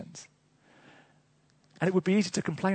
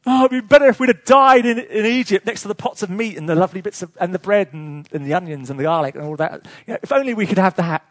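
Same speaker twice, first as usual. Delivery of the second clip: grumbling Israelites; 7 dB louder than usual. Acted. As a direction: moan it like a nostalgic complainer. Israelites grumble about Egyptian food.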